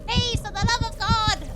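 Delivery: high panicked plea; desperate yell. Real, not acted. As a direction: beg the monster to go away. Panicked plea at game enemy.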